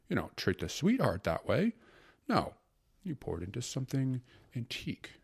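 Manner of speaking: lightly voiced gourmand secretary; a touch of swooning epicure, lilting upward; rapturous secretary. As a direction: lecture lovingly, relishing each detail. Secretary lectures rapturously on food and drink.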